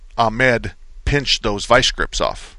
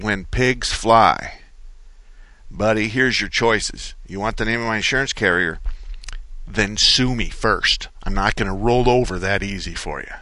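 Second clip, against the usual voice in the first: defiant retort. Retold or imitated. Host retelling his defiant answer to the attorney. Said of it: "And I said".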